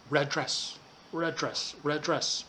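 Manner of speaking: RED DRESS run together with one shared D; linked sounds. Shown as a demonstration. Teacher showing students how words link, red dress with linked D. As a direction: join red dress into one unit, no gap between the Ds. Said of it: "we link the sounds".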